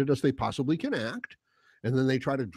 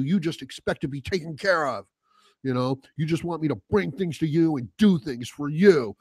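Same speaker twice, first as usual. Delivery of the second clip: mildly heated reenacted tirade, punching key words; mock accusatory rant; angry ranting. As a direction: take it out on whoever is nearest. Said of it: "I'm getting all fucking angry".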